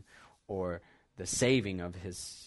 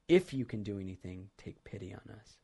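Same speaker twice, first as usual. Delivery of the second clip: polite, hedging plea; 2 semitones lower than usual. Shown as a demonstration. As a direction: ask gently, not demanding, hedging your bets. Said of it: "he's saying in a polite manner, trying not to be too demanding".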